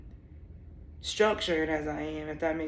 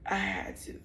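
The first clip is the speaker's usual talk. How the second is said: grieving whisper; 5 dB quieter than usual. Real, not acted. Whispering about losing her dog, in real grief. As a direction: let it slip out in a whisper as it hurts.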